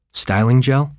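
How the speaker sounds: curious rising query; puzzled question. Retold or imitated. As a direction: ask about styling gel as if hearing of it for the first time. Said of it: "What is that?".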